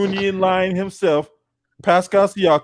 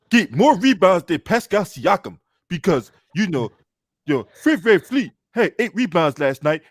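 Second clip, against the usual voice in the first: put-on Zimbabwean accent. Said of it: "in my Zimbabwe voice".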